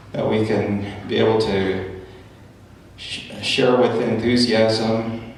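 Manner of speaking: opening prayer. Real, not acted.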